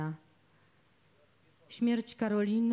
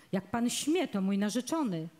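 usual speaking voice

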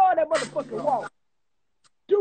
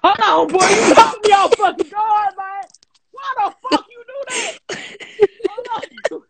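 surprised; 5 semitones higher, 5 dB louder than usual. Real, not acted. Shocked by the girl voice.

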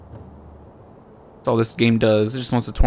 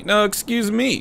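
squeaky polite bow; 10 semitones higher than usual. Pretend. Voicing NPCs bowing repeatedly.

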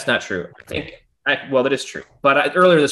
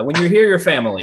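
mock Italian slogan; 6 semitones higher, 4 dB louder than usual. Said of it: "I feel like you wanted, like, end that sentence with".

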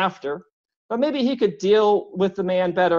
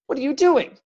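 higher, louder angry demand; doctor blocks the foot in the door, angry; growling; 9 semitones higher, 4 dB louder than usual. A narrator's reading. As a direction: push back hard at him. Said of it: "Benjamin growled".

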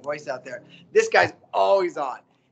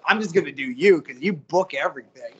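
mock reply; 2 semitones lower than usual. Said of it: "And I was like".

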